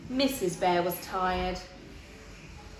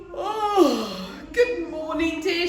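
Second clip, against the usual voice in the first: high, bright morning greeting; cheerful Missus Bear; 6 semitones higher, 5 dB louder, slower than usual. A narrator's reading. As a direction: wake him with cheer. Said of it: "she said".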